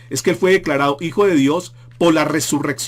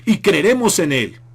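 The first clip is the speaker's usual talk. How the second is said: louder, higher taunting of the crucified man; mocking jeers; 4 semitones higher, 3 dB louder than usual. Preacher voicing the crowd taunting Jesus, loud mocking jeers. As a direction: jeer at him from below the cross. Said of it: "Ellos le gritaban y le estaban diciendo".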